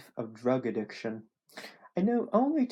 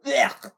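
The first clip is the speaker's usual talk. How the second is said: loud throaty retch; dry retching noise; 9 dB louder than usual. Acted. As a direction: act a dry heave from the throat. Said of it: "A dry retching noise came from his throat".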